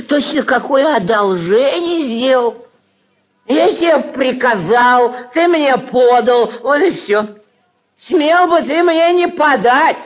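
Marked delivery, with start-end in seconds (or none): 3.7-10.0 haughty scolding. Acted. Berates the servant.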